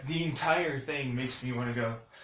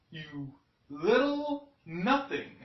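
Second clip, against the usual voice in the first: pretend confrontation; 6 semitones higher, 3 dB louder, slower than usual. Imagined confrontation with attacker.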